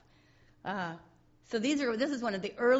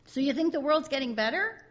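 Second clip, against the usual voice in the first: voicing Charlie Brown; 8 semitones higher, 5 dB louder than usual. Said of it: "Charlie Brown's talking to Linus".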